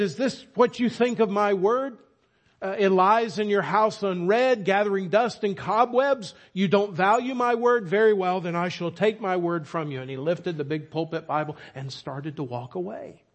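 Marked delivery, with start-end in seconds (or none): 0.0-10.0 preacher voicing God, louder and higher; a lightly voiced stern Lord rebuking his people; acting as God. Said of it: "he began to play, as it were, the Lord's part".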